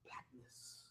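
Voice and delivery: loud, high preaching shout; Sunday sermon shout, full force; preacher's shout. A narrator's reading. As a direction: thunder it from the pulpit. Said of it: "I heard someone shout".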